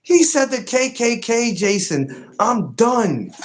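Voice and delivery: high, slow, laughing repeat; laughing disbelief. Real, not acted. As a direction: say it through helpless laughter.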